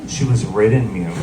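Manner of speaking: grave, hushed-with-import retelling; really serious. Retold or imitated. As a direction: repeat it with mock solemnity. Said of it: "this sounds really serious".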